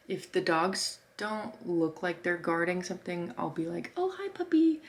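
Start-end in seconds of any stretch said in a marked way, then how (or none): 4.0-4.8 put-on baby talk to a puppy. Greeting guard dogs sweetly.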